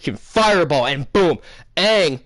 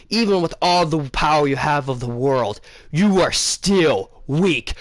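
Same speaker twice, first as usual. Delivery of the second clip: villain voice; 2 semitones lower than usual. Retold or imitated. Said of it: "the Fire Lord's like".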